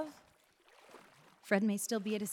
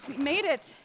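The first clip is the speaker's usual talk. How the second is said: relieved cry; 8 semitones higher than usual. Acted. Wife reaching help with husband, relieved cry.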